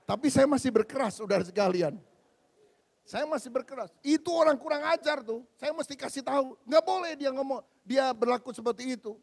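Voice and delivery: loud, indignant outburst; retold fury. Preacher reliving anger at rude driver, loud indignant rant. Retelling own anger loudly.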